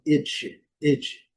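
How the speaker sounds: "ed" said as a short "idge"; -AGE ending sound. Shown as a demonstration. Teacher showing the AGE ending, "ed" as short "idge". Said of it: "vai pronunciar esse som".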